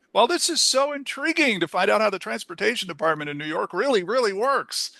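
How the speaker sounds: sarcastic. Retold or imitated. Sarcastic remark at bus fight.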